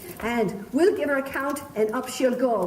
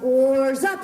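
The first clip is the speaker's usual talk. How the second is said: cry out; 5 dB louder than usual. Shown as a demonstration. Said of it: "will you cry out".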